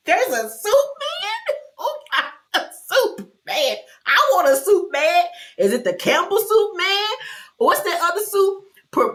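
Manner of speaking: high, giggly, incredulous riff; laughing disbelief. Real, not acted. Host laughing over the mysterious soup man, high giggly disbelief. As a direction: squeal through giggles.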